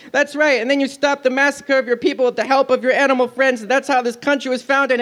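high eager voice; gushing. Acted. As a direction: carry on gushing. Pinocchio gushing.

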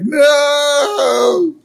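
high, loud cry of no; shout. Retold or imitated. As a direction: yell to stop him. Kids shouting at Burns.

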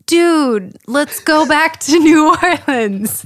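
put-on light French accent on Armand's line. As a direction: say it like a French vampire. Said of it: "In a French accent, mind you".

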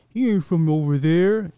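high-pitched, incredulous imitation; mock disbelief. Viewers learning the actor is British, in mock disbelief. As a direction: act out stunned disbelief, pitched well up. Acting out surprised TV viewers' reaction.

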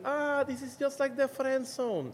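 drawn-out hushed punchline in a put-on voice; mock dramatic gag line. Retelling his planned joke for the video, slow and hushed.

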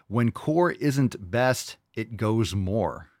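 drawn-out, puzzled reading, word by word; slow puzzled read. Shown as a demonstration. Quoting a viewer's garbled question, slow and baffled. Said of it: "reading a garbled question".

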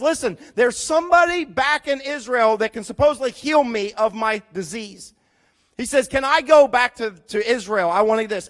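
loud, urgent plea to the king; Naaman pleading loudly. Retold or imitated. Naaman loudly begs his king to let him go. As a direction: beg for permission, pushing hard.

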